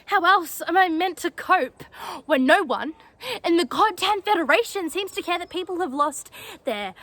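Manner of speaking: worked-up, aggrieved outburst; indignant protest. Acted. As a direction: plead and accuse at once, pitch lifted. Cadet protests to superior about war losses.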